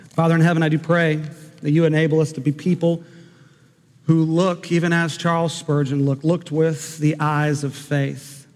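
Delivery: gentle pastoral prayer. Acted. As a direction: pray humbly over the congregation. Closing prayer.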